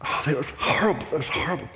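whispered, hushed self-reproach; regretful whisper. Retold or imitated. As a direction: breathe it out in shame after waking. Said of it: "and you think".

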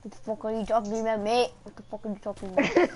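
put-on joking British accent, a bit quick and low; mock British accent. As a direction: play up a British bloke, tossing off "mate". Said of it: "like, an accent for some reason".

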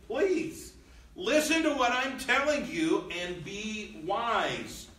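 high, slow earnest plea; pleading father. Retold or imitated. Solomon pleading with his son Rehoboam, slow and high. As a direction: beg the son gently to listen.

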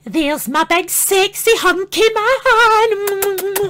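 slow cooing lassie. Acted. Lassie character coos at him.

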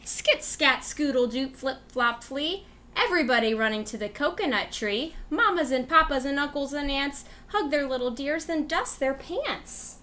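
rhythmic read-aloud voice; reading to children. Acted. Teacher reading a rhyme book to kids, rhythmic. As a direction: read it like a bedtime storybook.

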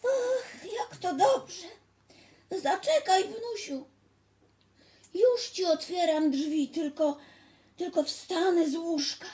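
high, loud quavering granny; weak grandma. Acted. Grandma glad to open for her grandchild, weak granny voice. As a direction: answer in a high, ailing old-lady voice. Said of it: "zapytała słabym głosem babcia".

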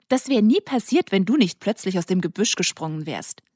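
affronted outburst; indignant accusation. Acted. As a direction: hurl the blame at him. Milla blames Colin, indignant.

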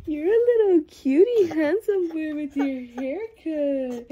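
mother cooing to her son, lightly high. Real, not acted. Cooing at the baby.

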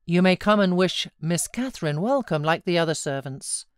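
scornful, mocking servant summons; gloating. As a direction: rub his nose in it. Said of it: "enjoying his discomfiture".

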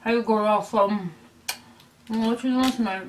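talking through a mouthful of snacks; mouth full. Shown as a demonstration. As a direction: chew while you speak. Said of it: "let me tell you what I don't like".

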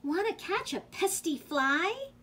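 high-pitched rooster question; rooster's invitation. A narrator's reading. Rooster inviting the spider to catch flies, high voice. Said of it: "crowed the rooster".

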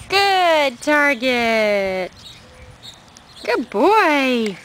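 slow drawn-out sing-song praise; squeaky praising a dog. Real, not acted. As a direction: stretch the praise out sweetly. Praising dog's trick.

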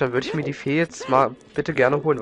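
ordinary delivery

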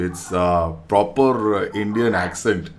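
slow, heavy Indian accent. Shown as a demonstration. Showing off his Indian accent to a stranger. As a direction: lay on the Indian accent, slowly. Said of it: "I can talk like this also".

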